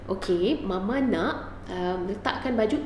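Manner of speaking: the right way, mother asking gently; calm request to child. Shown as a demonstration. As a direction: ask the child calmly. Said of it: "macam saya cakap, firstly, cakap dengan dia".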